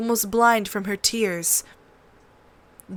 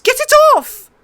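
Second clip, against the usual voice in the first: even higher, louder shriek; louder screaming in pain; 11 dB louder than usual. A narrator's reading. Prince shrieks again under the wolf. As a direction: scream harder, in full panic. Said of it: "he screamed".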